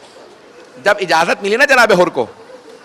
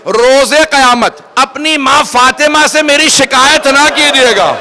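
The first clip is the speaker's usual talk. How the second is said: loud plea; 3 semitones higher, slower than usual. Acted. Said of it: "جناب حر نے بلند آواز سے کہا".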